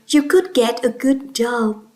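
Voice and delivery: "could" said firmly as the key word; emphasize "could" to sound sure; stress on COULD. Shown as a demonstration. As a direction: put the weight on "could". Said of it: "the word could is straight".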